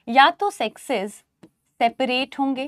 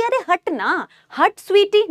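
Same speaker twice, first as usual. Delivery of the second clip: mild annoyance; 6 semitones higher than usual. Pretend. Teacher acting out pushing Sweety away, annoyed. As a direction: shove her aside, half-annoyed. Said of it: "थोड़ी सी आपको गुस्सा आएगा ना".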